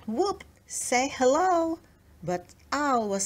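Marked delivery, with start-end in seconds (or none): 0.1-1.8 swooping bat. A narrator's reading. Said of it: "A swooping bat".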